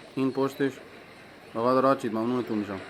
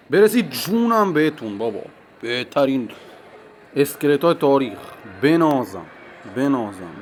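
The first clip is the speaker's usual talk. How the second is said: excited cheering; 8 dB louder than usual. Real, not acted. Cheering own winning troops.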